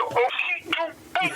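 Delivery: squeaky, laughing pleading; fighting back laughter; mock stifled laugh, high; high strained giggle. Ming trying not to laugh.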